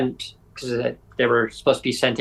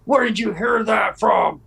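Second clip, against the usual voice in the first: higher, slow, put-on voice of a suspicious old lady; suspicious neighbor; 7 semitones higher, slower than usual. Retelling the neighbor's reply to Aaron, a higher, slow, suspicious old-lady voice. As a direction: draw out the question like a wary old neighbor. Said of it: "And she says".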